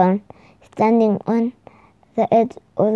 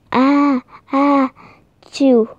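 hammed-up sneeze building to the burst; screamed sneeze; 3 semitones higher, much slower than usual. A narrator's reading. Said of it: "screamed the dragon".

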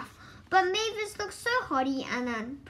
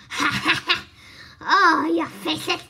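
hearty laughter, then a louder cry of glee; laughing out loud; 3 semitones higher, 7 dB louder than usual. A narrator's reading. Mavis laughing at her friends' fooled faces, loud and gleeful. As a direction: laugh heartily and exclaim through it. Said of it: "she cried when she stopped laughing".

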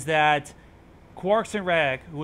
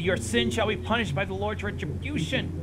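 fire-and-brimstone priest; 4 semitones higher than usual. Acted. Acting out the priest's outburst.

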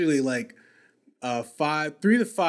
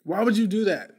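exasperated protest; 3 semitones higher than usual. Retold or imitated. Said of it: "I'm like".

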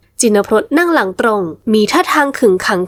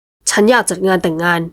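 low, slow, decided; a man's firm, resolute voice; 4 semitones lower, slower than usual. A narrator's reading. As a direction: state it as a settled decision. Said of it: "ด้วยน้ำเสียงหนักแน่นเด็ดเดี่ยว".

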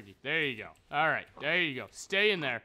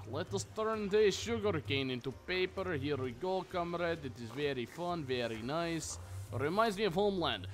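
mock Russian accent. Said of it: "using a Russian accent".

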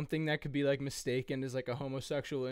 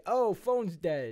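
slow lazy excuse; 4 semitones higher, 5 dB louder, much slower than usual. Acted. Batman excuse.

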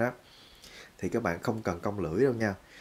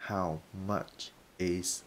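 very slow, softer "How much is this?"; slow demo; 6 dB quieter, much slower than usual. Shown as a demonstration. Teacher modelling the price question slowly. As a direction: draw it out gently. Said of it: "demo after word split".

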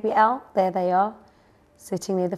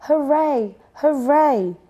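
high, loud chick-like hoorays; excited cheer; 7 semitones higher, 6 dB louder, slower than usual. A narrator's reading. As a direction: cheer with delight. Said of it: "they cried".

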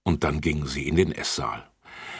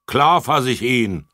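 higher, louder defiant shout; 8 semitones higher, 8 dB louder than usual. A narrator's reading. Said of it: "schrie Lutz".

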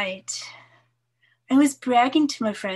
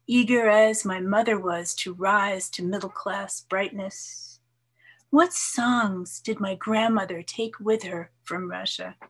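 measured, lightly lilting poem reading; poetry reading. Acted. Poet reads her poem to listeners, measured recital voice. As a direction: read it like a poet sharing her work, unhurried.

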